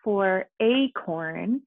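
acorn stretched slowly, the a long; teacher drawing out acorn; drawn out acorn. Shown as a demonstration. Teacher modeling a long vowel, slow and stretched. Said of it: "So just like in A".

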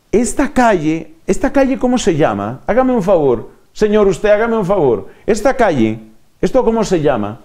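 lightly acted insistent passer-by question; lost stranger asking. Lost person asking a passer-by the street's name, lightly acted. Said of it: "la persona pregunta".

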